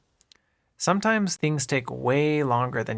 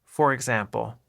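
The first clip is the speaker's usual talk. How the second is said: ordinary delivery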